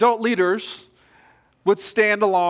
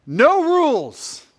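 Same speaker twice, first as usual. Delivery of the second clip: slow, drawn-out shout, higher and louder; commander's yell; 7 semitones higher, 3 dB louder, much slower than usual. Retold or imitated. Commander yelling at the boys to start chaos, drawn-out shout. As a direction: bellow it to unleash the boys. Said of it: "And he yells this".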